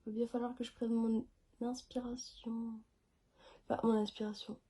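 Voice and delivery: talking without breathing. Real, not acted. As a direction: say it on one held breath, air running out. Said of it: "je parle sans respirer".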